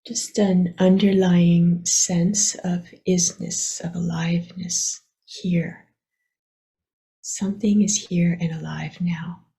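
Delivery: unhurried meditation guidance with long pauses; guided meditation. Acted. Teacher guiding listeners to relax their attention, unhurried meditation voice. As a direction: gently lead them inward, leaving long silences.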